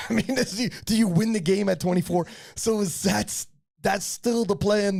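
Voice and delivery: amused disbelief, words riding a laugh; laughing question. Real, not acted. Host laughing as he asks the young lifter about her age.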